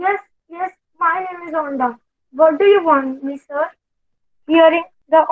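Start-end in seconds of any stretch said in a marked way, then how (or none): 0.1-3.7 timid nasal whine. Acted. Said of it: "in his nasal voice".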